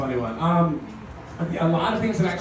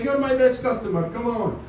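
deli friend; 6 semitones higher than usual. Retold or imitated.

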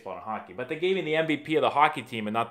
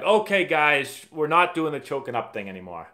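retold coach announcement; 4 semitones higher, 5 dB louder than usual. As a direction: call the team in and drop the rule. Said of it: "they're like".

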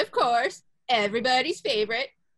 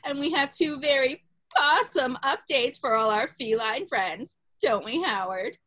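Carole Baskin impression.

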